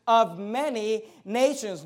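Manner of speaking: "of many nations" said slowly, every word leaned on; emphasis on many nations. Shown as a demonstration. Preacher stresses God's promise to the congregation. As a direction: drag out "of many nations" for weight. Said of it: "notice the emphasis".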